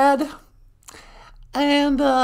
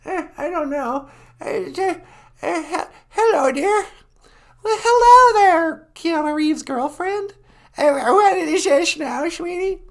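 put-on hard-of-hearing old woman; old lady voice. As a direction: croak like a deaf granny. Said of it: "She's really old and nasty".

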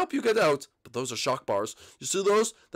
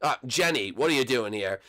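ordinary talk

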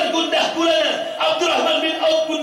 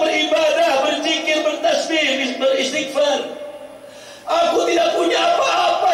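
tearful plea. Acted. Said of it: "Badui menangis".

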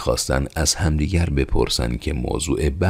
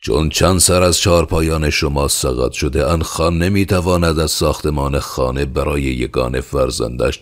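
moderately raised, commanding voice; somewhat louder, authoritative address; 3 semitones higher, 4 dB louder than usual. Acted. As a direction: speak up firmly to order the peasants. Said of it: "صدایش را بلند کرد".

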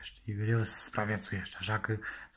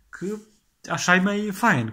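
excited exclamation; 8 semitones higher, 5 dB louder than usual. Acted. Excited about walking around naked.

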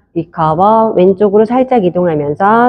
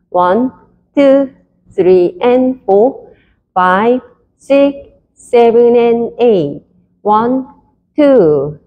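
counting dance steps; much slower than usual. Shown as a demonstration. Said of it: "풀 카운트".

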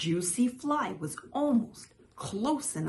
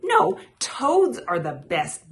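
high, loud boast; 7 semitones higher, 9 dB louder than usual. A narrator's reading. Toad contradicting Frog, loud and boastful. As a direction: insist proudly over the rival. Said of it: "boasted Toad".

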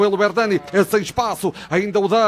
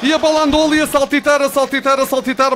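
excited commentary; 5 semitones higher than usual. Real, not acted. Lively goal replay.

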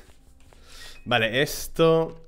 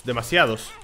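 a frustrated shout of the word; 2 semitones lower than usual. Shown as a demonstration. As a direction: yell it at the screen. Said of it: "Se me acumulan muchos".

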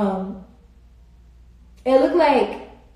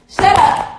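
high, loud mock snap; playful outburst; 9 semitones higher, 8 dB louder than usual. Real, not acted. Streamer answering a viewer who said end this, playful shout. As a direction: shout it back teasingly. Reacting to a chat comment.

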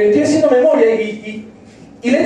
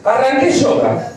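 slow drawn-out punchline; slower than usual. Acted. Comic to audience, savouring his yoga confession, slow. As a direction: stretch arranqué yoga out slowly through a laugh.

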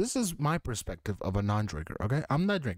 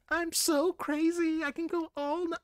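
mock drunk. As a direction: play it silly tipsy. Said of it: "Oh, snap, I'm drunk".

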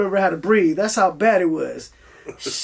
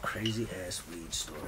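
whisper; 14 semitones lower, 19 dB quieter than usual. Real, not acted. Repeating the question to himself.

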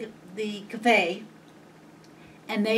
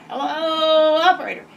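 high squawking parrot greeting; 8 semitones higher, 9 dB louder than usual. Retold or imitated. Parrot greeting the operator in the lobby, high squawk. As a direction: chirp it like the parrot. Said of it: "parrot told her".

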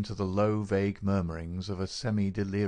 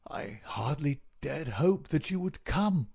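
slow, raised, halting invalid's voice; feeble sick voice; 6 semitones higher than usual. A narrator's reading. Sick man thanks visitor he hardly expected, feebly. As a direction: struggle out each phrase weakly. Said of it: "Holmes whispered".

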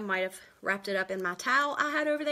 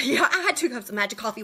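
laughing; 2 semitones higher, 4 dB louder, faster than usual. Real, not acted. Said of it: "She had two cups of".

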